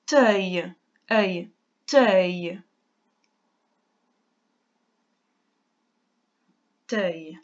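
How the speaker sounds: teuil split into t plus œil, then whole again; dictation sounding out. Shown as a demonstration. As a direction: break teuil into its sounds for the child. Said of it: "tu écris".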